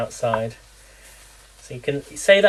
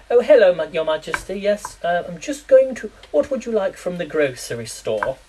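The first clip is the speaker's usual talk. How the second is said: lightly posh royal voice, higher in parts; posh Queen impression; 4 semitones higher than usual. Joking to viewers about British words, a light Queen impression. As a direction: play the Queen fussing over shopping. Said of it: "it's like the Queen".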